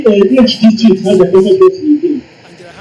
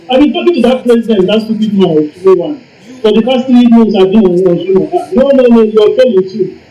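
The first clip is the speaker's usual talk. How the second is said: higher-pitched acted scolding, mildly exasperated; scolding governor; 3 semitones higher than usual. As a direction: lightly play a governor telling someone off. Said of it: "when the governor asks you".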